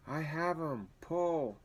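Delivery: high shouted command to pull; yelling to the others to haul him out; urgent call. Acted. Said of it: "Strong John's voice woke".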